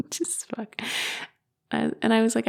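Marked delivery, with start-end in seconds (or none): 0.1-0.8 whispered curse. Retold or imitated. Whispered dismay at killing bird.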